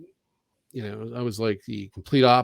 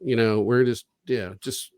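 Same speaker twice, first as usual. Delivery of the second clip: mock offer; 3 semitones higher than usual. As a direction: parody the liar's promise. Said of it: "mocking their offer".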